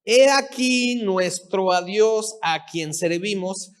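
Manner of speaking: solemn scripture read from the pulpit. Acted. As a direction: read the verses out to the congregation. Reads Bible verses aloud.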